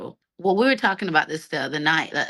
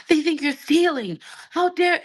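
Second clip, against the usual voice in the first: higher, louder indignant outburst; imitating angry partner; 10 semitones higher, 4 dB louder than usual. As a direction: play the outraged partner, pitched up. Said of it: "he got so angry".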